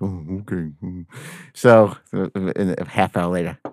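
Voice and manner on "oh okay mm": resigned. Retold or imitated. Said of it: "He's like".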